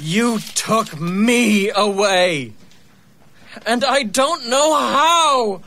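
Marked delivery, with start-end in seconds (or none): 0.0-2.5 slow hushed whisper; man whispering the accusation to his friend. Acted. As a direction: breathe it out, accusing. Whisper heard.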